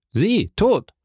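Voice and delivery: high, incredulous cry of disbelief; startled exclamation. A narrator's reading. Morel hears his friend may die, startled exclamation. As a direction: exclaim it in shock, pitch leaping up. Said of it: "rief Morel".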